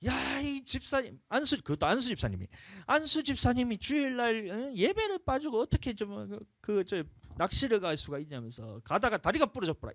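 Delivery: high, ranting mock scold of the deacon; angry pastor, retold. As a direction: imitate the angry preacher scolding from the pulpit. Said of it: "목사님이 화가 난 거야".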